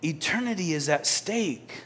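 quiet echo of Jesus' warning. Shown as a demonstration. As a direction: let it sink in quietly. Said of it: "Jesus said it that way".

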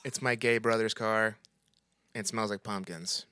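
whispered, slow aside. Real, not acted. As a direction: hush it like a secret.

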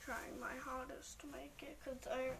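hoarse, croaky near-whisper; croaky voice, half whispered. Real, not acted. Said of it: "the speaker has a croaky voice".

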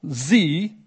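sie repeated with weight; sie, not es; stress on sie. Shown as a demonstration. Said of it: "also nicht es".

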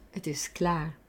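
soft unvoiced whisper. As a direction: breathe it out as a whisper. Body voice saying stop.

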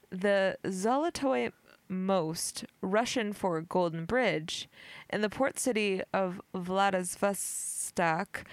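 slow, careful robot voice. Real, not acted. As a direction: read it stiffly like a robot. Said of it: "I sound like a robot".

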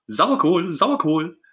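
high, shrill parrot squawk; high-pitched mock bird screech; shrill budgie cry. A narrator's reading. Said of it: "schrie der Wellensittich mit schriller Stimme".

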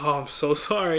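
mildly apologetic, imitating a contrite dad; retold apology. Dad apologizing to daughter over shrunk sweater, mildly contrite. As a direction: say sorry as the sincere dad would, lightly acted. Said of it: "like, legit apologetic".

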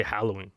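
Halloween with a strong "a" as in "hat". Shown as a demonstration. Host giving his own way, Halloween with "hal". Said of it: "Ah, with the strong".

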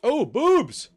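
high, loud excited yelp; excited shout. Real, not acted. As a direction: burst out in delight. Excited outburst during the game.

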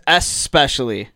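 "especially" said as "ess-pecially"; reported correct pronunciation. Shown as a demonstration. Co-host relaying the answer, "especially" without a K. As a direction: start "especially" on S, no K. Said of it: "Mia says".

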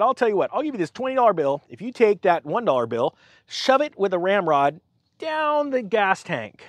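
a smug sarcastic bargain; mock offer. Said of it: "sarcastically say".

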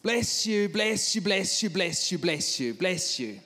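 high, loud volley of blessings easing off; urgent repeated blessing. Retold or imitated. Preacher warding off a crying man beside him, urgent. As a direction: fire blessings out, one on another.

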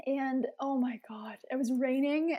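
hushed whisper. Real, not acted. Hushed memory of the rain.

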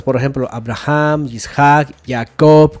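Abraham, Isaac, Jacob, each stressed on its last syllable; final-syllable stress. Shown as a demonstration. Teacher gives Hebrew examples, last syllables of Abraham, Isaac, Jacob stressed. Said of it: "como que siempre van pronunciadas, ajá, al final".

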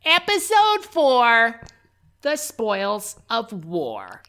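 drawn-out, nerdy announcer voice; nerd voice. Pretend. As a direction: play it like a nerd. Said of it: "I tried to sound like a nerd there".

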